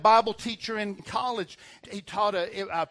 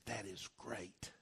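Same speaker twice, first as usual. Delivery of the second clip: low understated reply; 10 semitones lower, 18 dB quieter, slower than usual. Retold or imitated. Pastor to a tormented church member, very quiet low reply. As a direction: drop very low and soft, drawn out.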